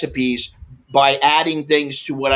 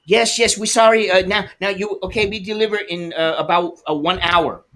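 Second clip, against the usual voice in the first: higher, apologetic clerk on the phone, in broken English; mock clerk voice; 4 semitones higher than usual. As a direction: play the flustered store clerk apologizing. Delivery clerk quoted on the phone.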